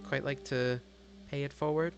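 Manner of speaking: high, soft, hesitant servant voice; polite butler. Acted. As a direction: offer tea delicately, with careful pauses. Butler Felicity politely offers tea.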